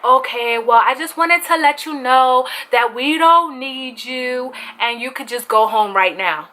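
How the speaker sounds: measured imitation Hispanic accent. Cha-Cha dismisses the employee, mock Hispanic accent. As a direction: put on the manager's Hispanic accent. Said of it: "I'm doing a Hispanic accent right now".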